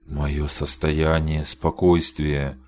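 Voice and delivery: slow, hollow, far-off repeating; distant entranced voice. Acted. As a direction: echo it as if from afar. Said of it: "словно издалека услышала Мари свой голос".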